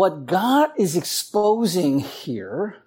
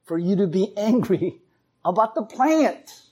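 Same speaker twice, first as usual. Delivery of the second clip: God asking; 2 semitones higher than usual. Retold or imitated. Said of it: "he asks a second time".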